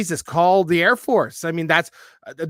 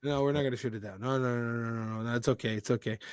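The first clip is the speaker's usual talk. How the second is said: mock soothing reassurance; 7 semitones lower, 11 dB quieter than usual.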